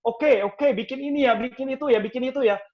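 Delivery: high, loud, eager agreement; optimistic yes-person. Acted. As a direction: take on every task with gusto. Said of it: "Selalu optimis".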